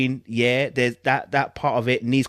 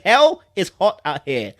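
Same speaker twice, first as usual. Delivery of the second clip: mock quote; 5 semitones higher, 6 dB louder than usual. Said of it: "They said".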